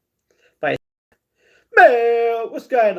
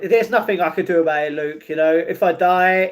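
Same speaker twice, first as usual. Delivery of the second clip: ordinary delivery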